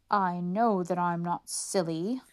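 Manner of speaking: slow, muttered worry to himself; reassuring himself nervously; anxious inner thought. Acted. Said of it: "the officer thought".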